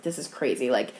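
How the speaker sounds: low, very soft starstruck aside; retold private, hushed amazement; hushed awe. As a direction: drop to a near-murmur, as if thinking it privately. Retold awed inner thought at cast.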